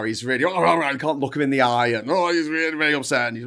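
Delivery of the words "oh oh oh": mock freaking-out butler; flustered string of ohs, lightly hammed-up; パニックのまね. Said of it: "he's really freaking out now".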